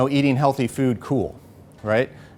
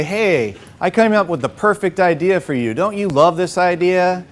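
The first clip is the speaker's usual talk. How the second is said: pushy, overeager pitch; eager salesy pitch; 3 semitones higher than usual. Retold or imitated. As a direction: oversell the idea like a salesman. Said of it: "you're not looking to try and say".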